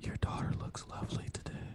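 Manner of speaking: soft, breathy whisper. Prompted by the other speaker to show a phrase sounds creepy whispered, whispering. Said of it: "say it as a whisper".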